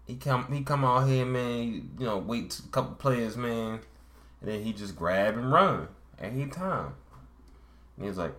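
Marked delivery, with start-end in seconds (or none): 0.1-6.9 lightly imitated Baltimore street talk; imitation dim Baltimore storyteller; Baltimore accent. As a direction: tell it in a mock Baltimore accent, a touch higher. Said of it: "a Baltimore accent".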